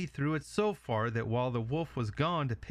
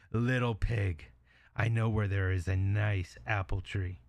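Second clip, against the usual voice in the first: luring wolf; 2 semitones lower than usual. Acted. Wolf lures the pig.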